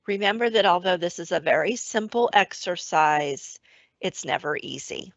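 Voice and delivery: calm, even meditation voice; guided meditation. Acted. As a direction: guide the listener gently back to the breath. Leads an awareness of breath meditation.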